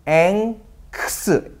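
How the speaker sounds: 앵크스 said very slowly, syllable by syllable; spelled-out sounds. Shown as a demonstration. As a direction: break 앵크스 into slow sounds. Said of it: "발음이 좀 어려워요".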